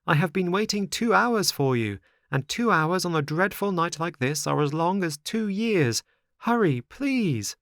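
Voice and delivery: high-pitched, plaintive puppet; pleading marionette. Acted. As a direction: plead up to the window, drawing out the last words.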